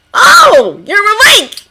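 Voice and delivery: high, bright happy surprise; light, delighted surprise; pleasantly surprised. A narrator's reading. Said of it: "pleasantly surprised".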